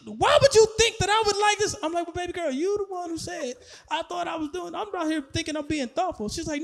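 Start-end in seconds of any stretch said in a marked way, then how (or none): 0.1-1.8 higher-pitched, offended questioning; mock outraged girlfriend, pitched up; indignant girlfriend. Girlfriend rejecting gift, acted. 2.1-6.3 hurt protest. Retold or imitated. Acts himself pleading with girlfriend.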